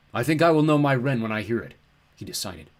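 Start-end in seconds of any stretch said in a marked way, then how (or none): 0.1-1.8 loud, sheep-like giant voice; bleating ram god. A narrator's reading. Ram god answers the girl, bleating. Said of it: "The Ram God bleated".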